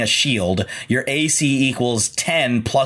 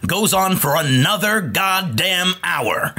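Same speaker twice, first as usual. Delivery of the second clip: booming mock newsreader, higher pitch; old radio announcer; 5 semitones higher than usual. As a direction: announce it like a breaking news bulletin. Mock special announcement bit.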